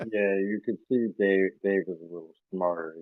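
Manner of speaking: distant muffled voice; talking through a pipe. Real, not acted. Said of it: "you're talking through a pipe".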